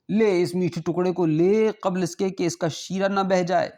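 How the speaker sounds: a rich host urging the morsel before its syrup drips; coaxing host. Acted. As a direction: lift the pitch and coax him to take it. Host coaxing guest to eat sweets.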